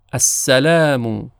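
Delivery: السلام slow, with a thin س; السلام said slowly with a light س; light seen. Shown as a demonstration. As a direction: draw out السلام, the س kept light. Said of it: "حرف سین تلفظش با صاد کاملاً متفاوت هست".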